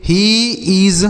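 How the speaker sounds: very slow, each word spaced for learners; slow teacher demo. Shown as a demonstration. Teacher reading an example slowly to students. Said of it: "वह मेरी मदद करने वाला है".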